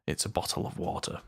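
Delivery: polished telephone voice for stream; soft, well-spoken telephone voice. Shown as a demonstration. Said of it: "my telephone voice".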